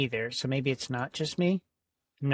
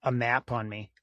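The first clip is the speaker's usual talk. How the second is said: robot voice; 2 semitones lower than usual. Real, not acted. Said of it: "You sounded like a robot for a second there".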